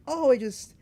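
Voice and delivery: mock-excited promotion news. Shown as a demonstration. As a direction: play the friend bursting with news.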